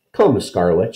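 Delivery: doll voice. Acted. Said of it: "using her doll voice".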